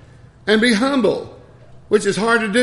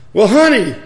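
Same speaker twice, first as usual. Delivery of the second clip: coaxing honey; 5 semitones higher, 8 dB louder than usual. Retold or imitated. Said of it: "And I said".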